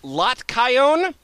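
a hint of a chirpy teen girl; Alyssa voice. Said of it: "I'm Alyssa thirty-two".

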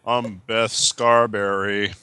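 slow, put-on American accent; lightly hammed American caller voice. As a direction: read it out in a mock American accent. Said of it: "do the British American voice".

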